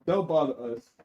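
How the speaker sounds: laughing, playful goddess brush-off; goddesses voice. Pretend. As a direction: brush them off lightly for the goddesses. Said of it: "They say don't".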